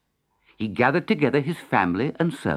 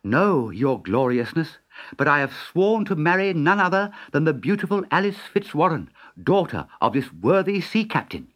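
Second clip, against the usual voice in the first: put-on courtly young Dick; 4 semitones higher than usual. Dick politely declines the marriage.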